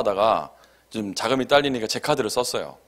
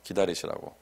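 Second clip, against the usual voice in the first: low, soft, slow placating tone; polite apology; 7 semitones lower, 6 dB quieter than usual. Retold or imitated. Debtor asking the caller to wait, polite low apology. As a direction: apologize nicely to buy time. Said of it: "몇 번 좋게도 얘기해보고".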